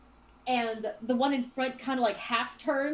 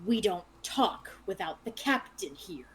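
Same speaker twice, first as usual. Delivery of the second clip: lightly growled-out warning; a hint of a growl from a guard; mild growl; 2 semitones lower than usual. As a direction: growl it out, understated. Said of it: "you just hear growled out".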